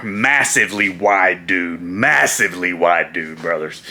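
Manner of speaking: slow deep low impression voice; mock Macho Man rumble. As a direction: drag it out in a low gravelly-free growl.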